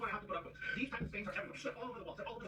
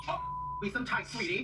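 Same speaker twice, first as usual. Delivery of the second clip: mock falsetto. Mocking the bride's voice.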